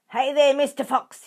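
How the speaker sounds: loud, high taunting hail; yelling. A narrator's reading. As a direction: jeer down at the fox. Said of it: "yelled Bunce".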